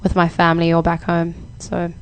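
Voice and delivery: everyday conversational South African accent; relaxed South African accent, demonstrating it on request. Shown as a demonstration. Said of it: "now talking in my South African accent".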